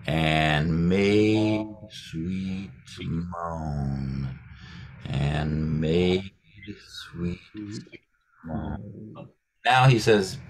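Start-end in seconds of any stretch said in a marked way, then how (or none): 0.1-4.4 extremely slow, drawn-out "And made sweet moan"; slowest. Shown as a demonstration. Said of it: "slow it down even more". 5.1-9.3 slow, fading. Shown as a demonstration. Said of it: "slow it down even more".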